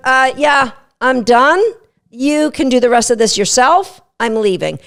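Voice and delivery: dog checking out. Retold or imitated. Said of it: "Checking out, tapping out".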